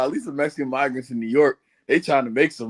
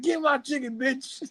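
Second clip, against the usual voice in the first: angry demand; 10 semitones higher, 6 dB quieter than usual. Retold or imitated. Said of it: "he's like".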